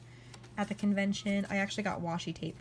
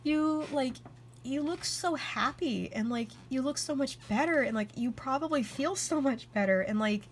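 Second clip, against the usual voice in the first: teary friend; 5 semitones higher than usual. Retold or imitated. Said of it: "she started crying a little bit".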